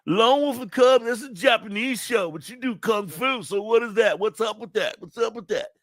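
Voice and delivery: high, nasal-free nerd voice way up high; squeaky know-it-all fan asking; nerdy voice. Acted. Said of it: "that's my nerdy voice".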